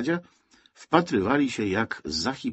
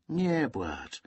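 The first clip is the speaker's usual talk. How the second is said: soft, higher consoling words; 7 semitones higher, 5 dB quieter than usual. A narrator's reading. Boy hands crying Zosia her picture, gently consoling. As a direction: comfort someone gently.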